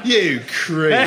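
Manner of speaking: laughing rebuke. Real, not acted. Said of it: "that actually became sinister".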